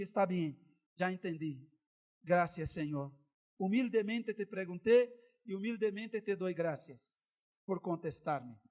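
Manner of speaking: humble surrender. Retold or imitated. Humble reply to God.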